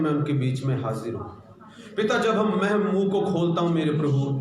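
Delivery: fervent pastor's prayer; earnest Hindi church prayer. Acted. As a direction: pray over the congregation, pleading. Opening prayer before the word.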